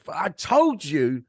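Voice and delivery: mock partner's telling-off, hitting key words; losing her shit. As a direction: imitate a fed-up partner reeling off grievances. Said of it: "lost her shit and gone".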